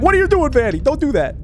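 high, hammed-up scolding voice; mock upset animatronic. Gamer voicing the upset animatronic at Vanny, high mock scolding. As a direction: voice the angry robot telling her off. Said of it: "He's like".

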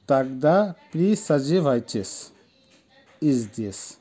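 measured word-by-word reading, pause before "здесь"; slow it down for learners, dropping on "здесь"; slow model sentence. Shown as a demonstration. Teacher models slowly, then repeats. (ধীরে, থেমে থেমে পড়া)

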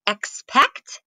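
expect said slowly and carefully; slow demo word. Shown as a demonstration. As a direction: draw out expect for learners. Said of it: "ask you to mark the".

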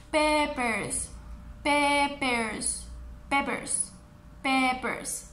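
"Peppers" in two even syllables, PE-pers; repeat-after-me model. Shown as a demonstration. Teacher leading children together, "Peppers" clearly modelled. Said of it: "todos juntos conmigo, repitan".

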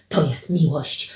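low, soft statement; hushed declaration. Acted. Alicja tells Paweł what love is, low and hushed. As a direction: drop the voice to declare it.

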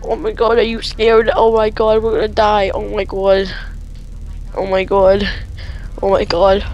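stammering, repetitive panic; scared. Real, not acted. Player regretting signing up for this job, scared babbling. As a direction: fret helplessly in fear. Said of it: "I'm scared".

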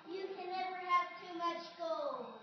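slow, loud and greedy; greedy gloating. Acted. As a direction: savour every word like treasure. Giant gloats over gold.

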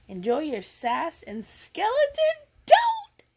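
breaking into a tearful whisper while reading; crying whisper. Real, not acted. Reading her cousin's card aloud, crying. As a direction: choke the last line out through tears.

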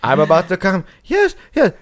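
hammed-up bedroom ecstasy through giggles; mock pleasurable moaning. Joker acting out pillow talk for friends, mock moaning. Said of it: "like, pleasurably moaning".

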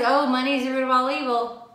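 quick, run-together imitation of somebody; quoted misquote. Teacher quoting what somebody says about money, quick imitation. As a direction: rattle it off like a common saying. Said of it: "when somebody says".

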